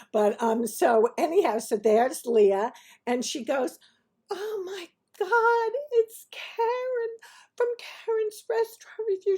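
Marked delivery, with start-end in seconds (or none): 4.3-9.4 very high, drawn-out fan squeal of words; imitated starstruck gushing. Restaurant owner spotting the TV critic, imitated starstruck gushing. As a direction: gush in a high put-on voice.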